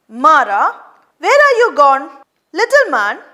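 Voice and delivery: put-on loud calling to the boy. Father calling the son.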